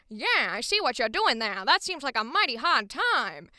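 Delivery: loud, swooping cartoony 1920s radio New York accent; over-the-top old New York. Shown as a demonstration. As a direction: ham up an old Brooklyn radio voice. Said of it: "that voice is so over the top".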